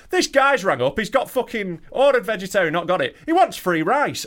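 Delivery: hammed-up rude phone guy; mock rude worker. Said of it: "their dickhead on the phone".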